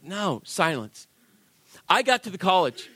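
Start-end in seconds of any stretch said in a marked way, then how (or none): 0.0-1.1 slow, softer stern command; a hint of God saying hush; stern divine voice. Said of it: "God was like".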